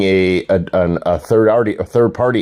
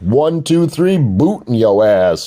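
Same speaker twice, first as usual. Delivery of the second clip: mock tough-guy taunt; hammed-up boot threat; 4 semitones higher than usual. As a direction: lean in and taunt them. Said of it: "I said".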